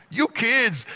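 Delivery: a hint of a grumbling old prospector; scolding old-timer, lightly voiced. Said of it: "I sound like an old prospector".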